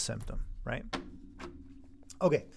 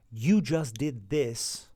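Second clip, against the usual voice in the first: accusing teacher; slower than usual. Retold or imitated. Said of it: "I don't ever accuse kids".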